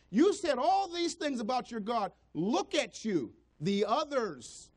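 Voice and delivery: preacher voicing the scoffers who mock a struggling Christian, taunting. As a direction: jeer at the believer as the scoffers would. Mocking voice of the scoffers.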